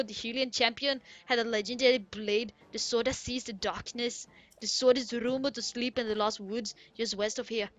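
put-on Goron storyteller in muddled Irish accent; badly faked Irish brogue; attempted Irish accent. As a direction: tell the legend in a put-on Irish voice. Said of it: "he even had that accent".

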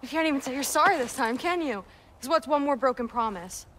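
bitter accusation. Acted. Son confronting his drunk father.

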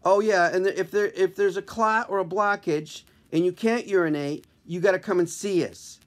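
put-on chirpy kid doctor, lightly; young intern voice.

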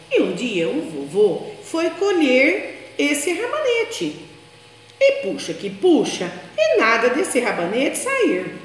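put-on lively storybook reading for small children; story narration. A narrator's reading. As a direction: tell it like a bedtime tale, animated.

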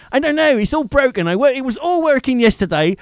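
put-on a mate phoning in a Devon accent; Phil's Devonshire accent. Imitating Phil ringing him, Devon accent. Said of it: "in that typical Devonshire".

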